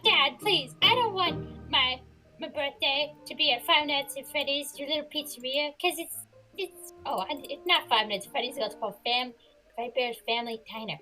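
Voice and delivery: put-on high, begging child voice; scared little kid pleading. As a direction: beg dad not to hold the party. Scared kid begs dad.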